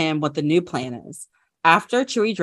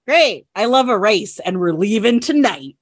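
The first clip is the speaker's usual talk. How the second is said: Han voice; 3 semitones higher, 4 dB louder than usual. Acted. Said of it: "Han is like".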